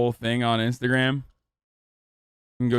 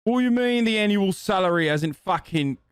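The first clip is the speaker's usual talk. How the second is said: mock outrage. Mock boomer outraged at graph.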